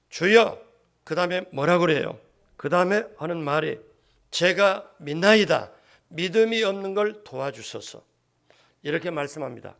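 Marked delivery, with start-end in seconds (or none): 0.1-0.6 loud, raised call to the Lord; firm cry. Acted. The father cries out to Jesus, firm and loud. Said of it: "확실하게 뭐라고 말하냐면". 4.3-8.0 loud, drawn-out declaration opening strong; firm confession. Acted. The father confesses to Jesus, firm and loud. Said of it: "확실하게 뭐라고 말하냐면".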